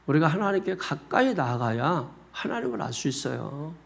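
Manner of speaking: ordinary talk, nothing marked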